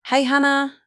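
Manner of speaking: light, narrated happy shout. A narrator's reading. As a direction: call back cheerfully to a friend. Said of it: "I shouted back to her happily".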